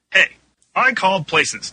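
mock shout. A narrator's reading. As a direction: call out over chatting performers. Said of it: "Dan shouted more loudly".

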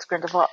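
"Grindelwald" with a V sound for the W; German-style pronunciation. Shown as a demonstration. Co-host explaining how Germans say it, German-style pronunciation. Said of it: "they pronounce their W's".

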